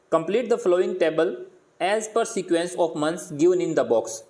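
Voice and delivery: very slow worksheet instruction read; slow teacher reading of the task. Acted. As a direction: read it out slowly and clearly for the class. Reads worksheet instruction aloud.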